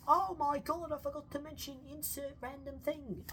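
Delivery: high, loud burst of dismay; hammed-up oh-my-god regret; mock panicked realization. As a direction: play suddenly remembering what you forgot. Acting future self panicking.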